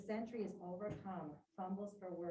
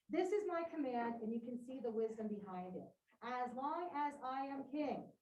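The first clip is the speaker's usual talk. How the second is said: a lightly voiced king, firm and a touch louder; Creon's decree read aloud; 3 semitones higher, 4 dB louder than usual. Teacher reading Creon's decree to the class, firmly declaiming. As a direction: read it like a ruler laying down the law.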